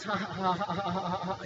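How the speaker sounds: soft imitated ha-ha of a smug doctor; mocking laugh imitation. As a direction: lightly mimic his dismissive chuckle. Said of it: "And he laughs".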